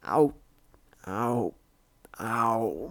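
soft little ow, ow, ow; pained cry. A narrator's reading. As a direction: yelp lightly as if limping. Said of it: "Morning Glory cried as she limped".

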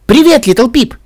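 high, loud delighted greeting; beaming. A narrator's reading. Pinkie notices a hidden listener, beaming. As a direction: greet her with gleeful surprise. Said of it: "озарилась улыбкой".

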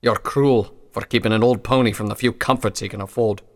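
put-on loud, aggrieved old pony; grumpy old pony. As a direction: complain at being denied comfort.

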